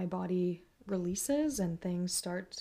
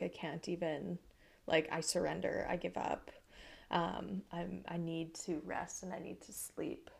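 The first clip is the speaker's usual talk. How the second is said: soft, spent voice giving up; drained surrender; 5 dB quieter than usual. Retold or imitated. To herself after the storm, drained and soft. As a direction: let it fade out like you have nothing left. Worn-out surrender, retold inner voice.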